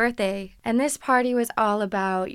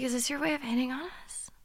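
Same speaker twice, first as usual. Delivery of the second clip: whispered, half to herself; a sly whispered dig; whispered aside; 3 semitones higher, 7 dB quieter than usual. Retold or imitated. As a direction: lean in and whisper it. Aside to friend about flirting.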